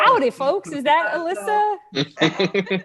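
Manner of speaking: a light mock cowboy host; howdy impression. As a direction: ham up a cheery howdy. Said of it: "doing my".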